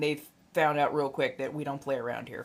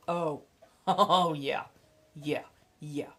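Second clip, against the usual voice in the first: blissful sigh; slower than usual. Real, not acted. Savoring imagined chai.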